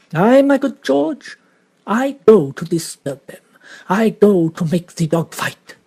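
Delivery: lightly voiced Belgian detective; a hint of a courteous French-accented detective; Poirot voice. Poirot muses to George.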